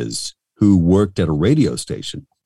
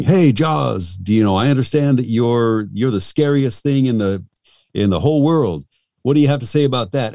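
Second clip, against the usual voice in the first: raised, eager mock-reporter voice; parody interviewer; 4 semitones higher than usual. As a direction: put questions to Jaws like a novelty-record interviewer. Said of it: "a guy interviewing Jaws".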